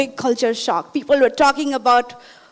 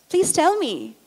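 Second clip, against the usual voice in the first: higher-pitched retold plea; pleading; 6 semitones higher than usual. Student begging the neighbor to tell her, pleading. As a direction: coax them to confide, voice lifted.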